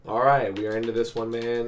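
hoarse sick voice; raspy from a cold. Real, not acted. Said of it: "I apologize for my raspy voice".

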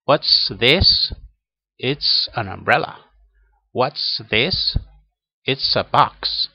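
crisp S in "What's" and "It's"; pronunciation drill. Shown as a demonstration. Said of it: "vamos a practicar la pronunciación". (práctica de pronunciación, S marcada en "What's" y "It's")

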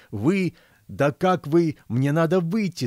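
put-on high, agitated old man; groaning old man. A narrator's reading. Old millionaire to a guard blocking him, protesting. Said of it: "закряхтел старик".

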